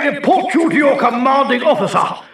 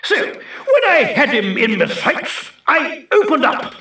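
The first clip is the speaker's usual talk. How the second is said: showing off; 3 semitones lower than usual. Acted. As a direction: sneer and brag. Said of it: "sounds like a show-off to me".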